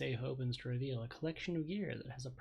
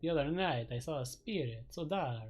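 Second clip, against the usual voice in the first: haunted vampire voice; 4 dB louder than usual. Acted. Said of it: "hard to do a vampire voice for very long".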